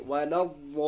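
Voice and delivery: "वलव वो" sustained for several beats; very long madd. Shown as a demonstration. Teacher shows madd in recitation, "वो" hugely stretched. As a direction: hold "वो" steadily on one long note. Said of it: "वो के बाद मद पढ़ेंगे".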